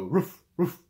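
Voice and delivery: short dog barks. Shown as a demonstration. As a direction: imitate a dog barking twice. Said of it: "maybe a dog go".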